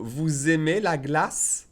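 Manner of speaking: "Vous aimez" linked with a Z, said slowly; slow careful question; slow, with liaison. Shown as a demonstration. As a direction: drag it out, joining the S to "aimez". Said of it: "I'm making the liaison".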